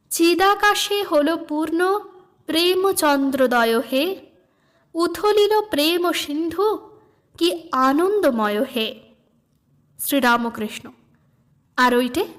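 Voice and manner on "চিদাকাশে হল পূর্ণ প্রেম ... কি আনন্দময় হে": slow, lilting recitation of a devotional song; recited song verse. Acted. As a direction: read the hymn as gentle verse. Song lyrics recited by reader.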